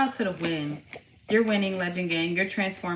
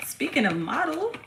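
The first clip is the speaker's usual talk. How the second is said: ordinary talk, nothing marked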